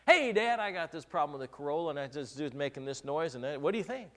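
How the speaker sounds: phone dad with a pressing car problem; young husband eagerly calling his dad about the car. Retold or imitated. Retold phone call to dad.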